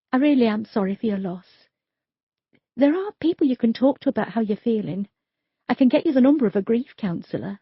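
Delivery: lightly voiced young detective, gentle; Sophia's voice. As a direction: offer help carefully. Detective comforts grieving man.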